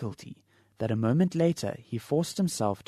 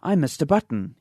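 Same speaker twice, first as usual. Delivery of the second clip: strained; 4 semitones higher, 6 dB louder than usual. Acted. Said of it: "he managed to articulate".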